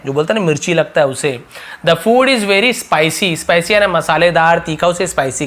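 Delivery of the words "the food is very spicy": drawn out word by word; slow model sentence. Shown as a demonstration. Teacher slowly modelling an English sentence. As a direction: read it slowly for learners.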